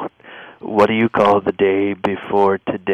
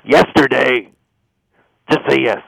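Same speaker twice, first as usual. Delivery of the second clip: higher, raised-voice insistence; mildly fed-up pleading; exasperated; 5 semitones higher, 4 dB louder than usual. Acted. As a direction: give up and demand the answer. Caller gives up coaxing the answer.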